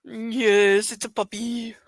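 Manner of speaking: hushed, fading to a whisper; soft puppy talk. Real, not acted. Speaker to the puppy, real hushed cooing. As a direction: coo it very softly to a puppy.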